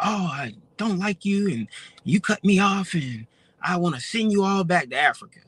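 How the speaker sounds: high ranting yell. Retelling what a driver who felt cut off yelled: imitating someone yelling. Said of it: "he's yelling".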